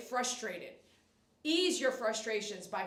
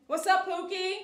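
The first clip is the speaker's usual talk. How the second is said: higher, louder sing-song hello to a fan; bubbly pet-name greeting, raised and loud; playful cutesy greeting; 8 semitones higher, 8 dB louder than usual. Acted. Greeting live viewers playfully.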